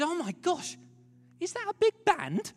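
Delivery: thrilled he is being welcomed; excited old missionary. Retold or imitated. Missionary at the harbor, mock delighted and eager.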